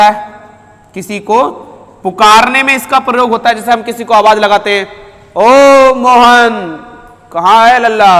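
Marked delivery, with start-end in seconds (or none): 5.3-8.1 calling out. Shown as a demonstration. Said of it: "इस तरीके से बोलते हैं".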